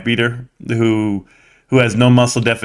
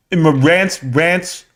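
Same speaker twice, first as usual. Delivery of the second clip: drawn out and higher; slowly mimicking the streamer; slow imitation; 4 semitones higher, slower than usual. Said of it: "I won't wanna talk slow like him".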